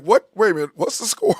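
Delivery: startled double take, pitch climbing high; astonished questioning, rising in pitch; retold surprise. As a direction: react like you missed something big. Retells startled reaction to sudden goals.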